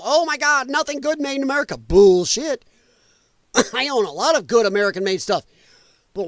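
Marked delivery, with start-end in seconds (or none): 0.0-1.8 higher, fast mocking whine; hammed-up mock outrage. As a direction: sneer it like a dramatic complainer. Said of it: "And some people".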